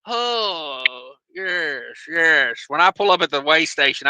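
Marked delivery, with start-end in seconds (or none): 0.0-2.6 hammed-up proper English accent; stagey fake British accent; mock British accent. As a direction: put on a bad, drawn-out British accent. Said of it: "I go proper English on 'em".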